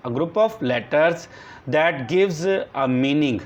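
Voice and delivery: very slow, word by word, for copying down; slow dictation. Shown as a demonstration. Teacher dictating a definition to the class, slow and deliberate. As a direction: dictate each word so the class can write it.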